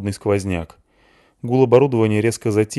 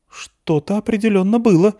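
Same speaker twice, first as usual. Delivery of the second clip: flustered; 12 semitones higher, 4 dB louder than usual. A narrator's reading. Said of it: "засуетился Воронцов".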